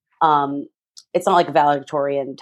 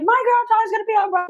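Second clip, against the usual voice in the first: very high, fast imitated shriek; mock proud screaming; faster than usual. Mom telling the world from her car, mock proud screaming. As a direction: shriek the news like an overjoyed mom. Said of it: "She's screaming out the door".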